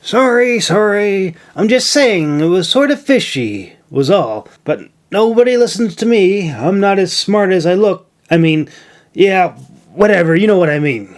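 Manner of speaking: high, quick flustered rambling. A narrator's reading. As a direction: backpedal nervously. Milo flustered backpedalling.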